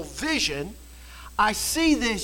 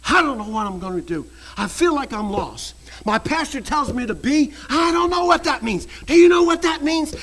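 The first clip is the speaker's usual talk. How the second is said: retold weeping; 5 dB louder than usual. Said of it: "he is crying".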